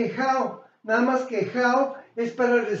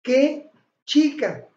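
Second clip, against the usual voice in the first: exclamation demo; 4 semitones higher, 3 dB louder, much slower than usual. Shown as a demonstration. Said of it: "Si yo digo".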